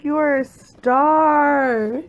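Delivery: slow, drawn-out praise; doting. Real, not acted. Talking to her dog Frank, slow doting. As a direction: tell the dog it's a star.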